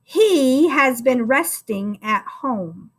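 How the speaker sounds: slow, clear dictation. Shown as a demonstration. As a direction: read each word slowly for the class to write. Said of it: "Here is your sentence one more time".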